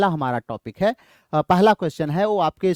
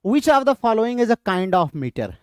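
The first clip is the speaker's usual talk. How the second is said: reads slowly, a bit higher; slow reading; 4 semitones higher, much slower than usual. Shown as a demonstration. Teacher reading the next quiz question, slowly. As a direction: read the question out for the class.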